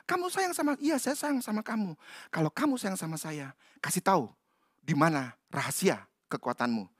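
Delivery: soft, wheedling lover's plea; coaxing softly. Acted. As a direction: sweet-talk him quietly. Delilah coaxing Samson.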